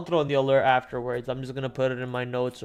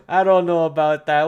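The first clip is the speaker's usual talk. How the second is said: louder, laughing "I don't know about that"; amused skeptical; 7 dB louder than usual. Real, not acted. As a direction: scoff at the rumor with a grin.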